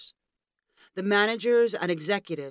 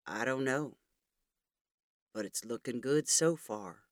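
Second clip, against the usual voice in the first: movie quote; 5 semitones lower, 6 dB quieter than usual. A narrator's reading. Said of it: "also quoting from the movie".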